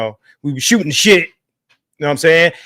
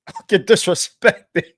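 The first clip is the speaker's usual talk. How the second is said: laughing. Real, not acted. Cracking up at inside joke.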